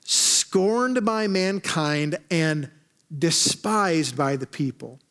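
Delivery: slow, solemn psalm reading; scripture reading. Acted. Pastor reads David's psalm to church, slow and solemn. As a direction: read it slow and weighty.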